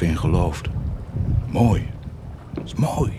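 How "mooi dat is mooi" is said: gloating whisper. Acted. Savouring the cruelty.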